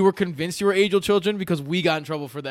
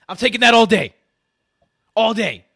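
gloating; 6 semitones higher, 7 dB louder than usual. Real, not acted. Gloating over the trade result.

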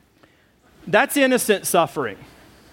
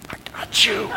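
Miata Man. Retold or imitated. Miata Man joins the chase.

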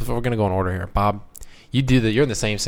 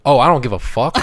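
dismissive; 4 dB louder than usual. Shown as a demonstration. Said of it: "either means".

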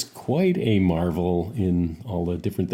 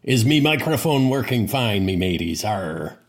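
pirate voice; 3 semitones higher than usual. Pretend. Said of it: "I'm gonna need an example".

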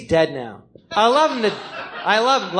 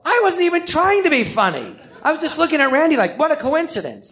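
amused, high laughing quote; laughing while retelling; 9 semitones higher than usual. Retold or imitated. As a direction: laugh through the line as you retell it. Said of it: "like that".

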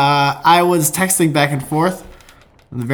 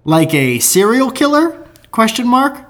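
friend's voice; 8 semitones higher than usual. Retold or imitated. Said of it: "Over to me".

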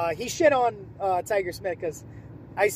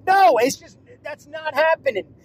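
indignant shout; 7 semitones higher, 10 dB louder than usual. Retold or imitated. Indignant refusal retold.

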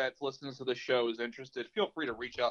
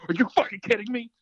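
higher and louder, a bursting shout of disbelief; excited yell; 9 semitones higher, 7 dB louder than usual. Retold or imitated. Friend got the job, an excited yell. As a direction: shout it in sheer joy. Second, disbelieving reaction to the news.

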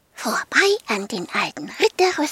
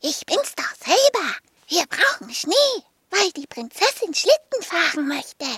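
eager dragon; 4 semitones higher than usual. Acted. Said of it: "rief Rüdiger".

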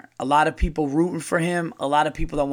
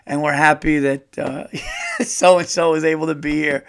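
mock polite toast; 4 dB louder than usual. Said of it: "it just goes back to".

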